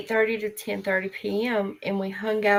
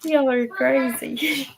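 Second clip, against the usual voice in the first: laughing; 3 semitones higher, slower than usual. Real, not acted. Reacts to funny story.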